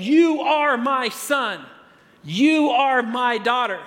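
father naming his newborn, proudly; fatherly declaration. Retold or imitated. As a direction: claim the child as yours.

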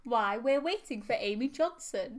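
posh 1930s crowd banter; old-timey newsreel voice. Acted. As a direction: play a jolly old-fashioned Englishman. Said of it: "our impression of the great song".

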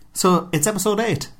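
ordinary talk, nothing marked

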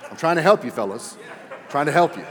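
normal talking voice

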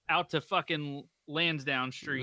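slow, drawn-out bad Boston accent. Host finishing the movie quote in a bad Boston accent. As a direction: stretch it in a mock Boston accent. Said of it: "that Boston accent's bad".

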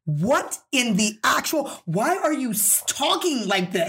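slow, emphatic retold disbelief; mock-incredulous demand; baffled disbelief. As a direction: spell out each word, appalled. Retold baffled reaction to his voice.

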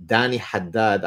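Danny Haddad in a light Arabic accent, "Haddad" with a breathy Arabic h and doubled d. Shown as a demonstration. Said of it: "I said that with the Arabic accent".

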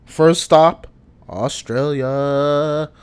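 slow, drawn-out announcer call. Pretend. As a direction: stretch the word like a host. Announcing the first stop.

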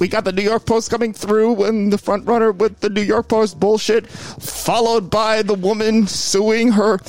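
excited race commentator; race announcer. Acted. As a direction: call it like a horse race. Mock horse race commentary.

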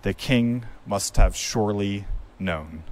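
measured narrator, pausing between phrases. Acted. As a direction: intone it like a storyteller, with deliberate pauses. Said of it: "a narrator saying that".

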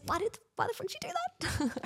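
mock indignant yell. Imitated indignant quote.

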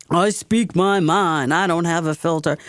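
lightly mimicked outspoken local personality; Joe DePina. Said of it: "he talks about".

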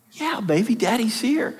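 put-on hushed, gentle reply to a little girl; soft whisper to child. Father whispering to his small daughter at her bed, hushed. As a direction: whisper back to reassure her.

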